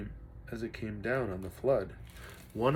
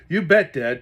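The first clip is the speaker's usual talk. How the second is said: eager answer; 4 semitones higher, 12 dB louder than usual. Acted. Boy answers dad in storm.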